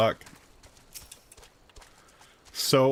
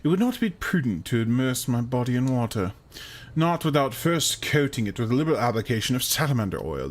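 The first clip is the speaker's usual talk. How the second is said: character voice. Acted. Player voices game character.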